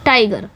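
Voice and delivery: टाइगर with weight on टाइ, गर dropping away; stress on टाइग. Shown as a demonstration. Teacher giving a trochee example, टाइगर stressed at the front. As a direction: lean on the first syllable of टाइगर. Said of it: "इस पे stress पड़ रहा है".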